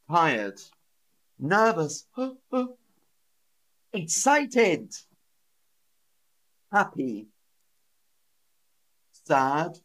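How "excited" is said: gasp, then high-pitched excitement; excited. Shown as a demonstration. Teacher reviewing feeling words, excited. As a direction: burst out high and thrilled.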